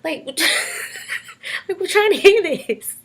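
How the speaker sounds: loud exasperated hushing; shushing. Retold or imitated. Family hushing a loud laughing dad, loud shush. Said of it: "everyone's like".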